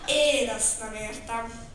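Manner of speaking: slow, pondering; thoughtful. Acted. Bear puzzles over the riddle, slow and thoughtful. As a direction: muse it over slowly. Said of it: "mondta elgondolkodva".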